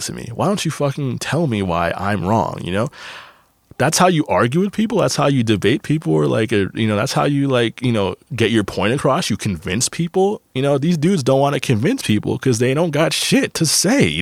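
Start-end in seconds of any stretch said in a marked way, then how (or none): none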